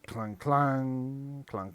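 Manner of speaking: ringing, drawn-out clangs; distant clanging. Acted. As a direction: imitate a far-off bell clanging. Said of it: "You hear in the distance".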